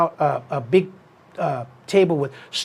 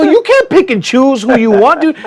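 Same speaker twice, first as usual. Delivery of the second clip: high, louder, laughing; laughing tease; 8 semitones higher, 7 dB louder than usual. Retold or imitated. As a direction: tease him through laughter. Teasing Sergio, retold.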